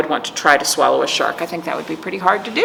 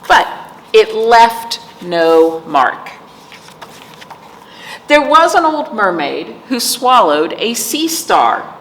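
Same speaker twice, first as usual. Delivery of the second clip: sing-song rhythmic read-aloud; reading to children; 4 dB louder than usual. Acted. Teacher reading a picture book to kids, sing-song. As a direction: lilt the rhyme for little listeners.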